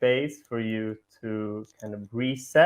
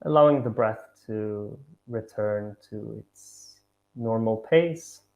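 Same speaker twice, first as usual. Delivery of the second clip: measured meditation guidance with long pauses; guided meditation. Acted. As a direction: guide them gently, pausing between each instruction.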